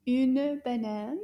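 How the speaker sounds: une banane slow and lifted, une stressed; slow repeat. Shown as a demonstration. Teacher to class, slow stressed repeat. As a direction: say une banane slowly, leaning on une. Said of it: "the more you repeat".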